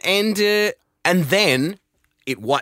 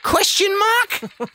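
slow, much higher questioning lilt; Jason Bateman question mark; much slower than usual. Retold or imitated. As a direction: drag it out as a mock question. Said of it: "Jason Bateman does that".

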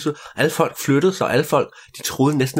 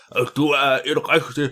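king praising; 2 semitones higher, slower than usual. Acted. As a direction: praise her like a jolly king. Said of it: "sagde han".

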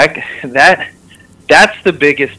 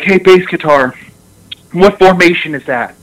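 imitated coach call; 5 semitones higher than usual. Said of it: "he yells down".

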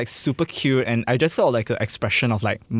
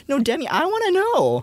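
very high, insistent mock demand; Khloe Kardashian. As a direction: press the question in a high put-on voice.

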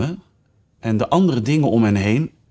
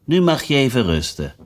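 kindly. Acted. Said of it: "zei vriendelijk".

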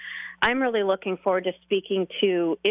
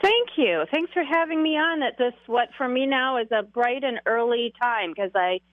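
wide awake and alert; 2 semitones higher than usual. Real, not acted. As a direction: sound fully awake and upbeat. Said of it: "you sound pretty wide awake".

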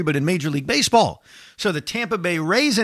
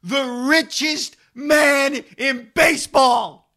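high, voice breaking with joy; emotional; 8 semitones higher, slower than usual. Real, not acted. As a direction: near tears of joy, rising higher. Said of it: "I'm getting emotional".

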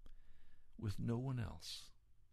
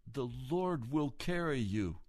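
slow, strong quote; 3 semitones higher, 5 dB louder than usual. Retold or imitated. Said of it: "And he said".

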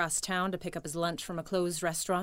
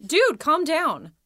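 calm down; 6 semitones higher, 8 dB louder, slower than usual. Acted. Reacting to friend's outburst.

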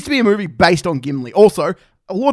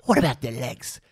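lower, slowing orc voice; angry orc; 3 semitones lower, slower than usual. Acted. Angry orc bargaining over the hobbits' legs, low creature voice. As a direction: grumble it slowly as a disgruntled orc. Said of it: "the guy gets angry".

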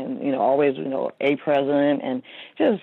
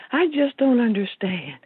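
lost and confused; 9 semitones higher than usual. Retold or imitated. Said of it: "so she says".

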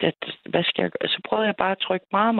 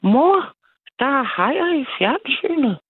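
put-on high, loud child's voice suddenly perking up; little boy voice; 9 semitones higher, 4 dB louder than usual. Small son tells his mother about sharks, in a high, loud child's voice. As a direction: play the son, cheerfully announcing the sharks. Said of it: "så sagde han".

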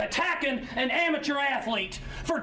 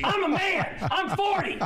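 laughing mock shout; shouted coach rant; 6 semitones higher than usual. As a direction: yell it like an angry coach. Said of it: "I gave the speech".

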